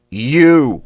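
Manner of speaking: "You" thrust out high and loud; sharp blast. Shown as a demonstration. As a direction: punch "You" out with all your air. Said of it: "You thrust out quickly, sharply".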